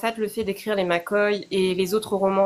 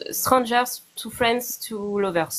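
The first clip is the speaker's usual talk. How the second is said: slow, careful English with a French accent; slower than usual. Real, not acted. Naming the trope to the interviewer, French-accented English. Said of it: "on admire mon accent anglais".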